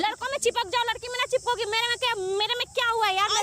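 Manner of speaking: a hint of a pleading flirt. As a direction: coax her to calm down, playful.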